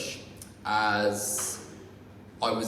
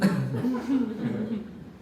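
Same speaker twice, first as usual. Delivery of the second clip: laugh; 10 semitones higher than usual. Real, not acted. Laughs at own joke.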